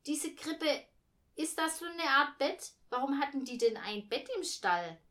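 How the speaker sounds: put-on high, puzzled child voice; pestering kid's question. A narrator's reading. Boy questions mother about the manger, high and insistent.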